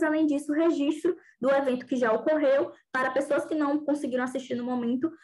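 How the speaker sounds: normal talking voice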